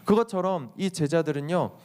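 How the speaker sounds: normal talking voice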